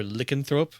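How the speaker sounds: "lycanthrope" starting with a short "lick"; weird pronunciation. Shown as a demonstration. Co-host offers the other reading of "lycanthrope", short "lick" opening. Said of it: "a really weird pronunciation of it".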